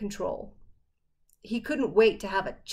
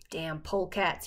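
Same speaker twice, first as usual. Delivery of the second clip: grumbled; 4 semitones lower, 4 dB quieter than usual. Acted. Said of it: "he grumbled".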